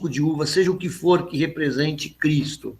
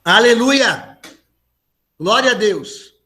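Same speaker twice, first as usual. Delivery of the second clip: Aleluia called out high and loud; joyful praise shout; 4 semitones higher, 4 dB louder than usual. Real, not acted. Praise shout after the prayer.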